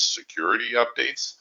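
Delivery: mock-official, in a mildly funny voice; funny air-quote voice. Shown as a demonstration. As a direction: put audible air quotes round the phrase. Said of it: "I'm using air quotes".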